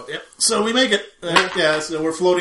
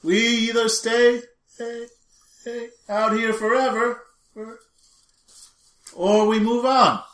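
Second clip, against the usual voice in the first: high, drawn-out words with trailing repeats; mock echo; 7 semitones higher, 4 dB louder, slower than usual. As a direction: imitate an echo after each phrase. Acted echoing reply in the void.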